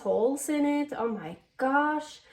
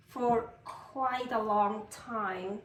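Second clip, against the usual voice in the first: slow, accidental hint of British; British-sounding; 3 semitones lower, 3 dB quieter, much slower than usual. Real, not acted. Vlogger explaining her cooking, slipping into British-sounding English. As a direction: let a British lilt slip in, drawn out. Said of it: "Did that just sound British?".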